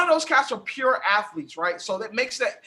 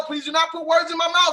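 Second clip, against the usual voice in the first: protesting shout; 3 semitones higher than usual. Real, not acted. Heated argument over Russ.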